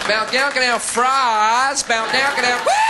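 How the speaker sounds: high, loud American gibberish into a whoop; rowdy mock American babble; mimicking American noises. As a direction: twang out nonsense American and end shouting. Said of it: "This American man came up to me".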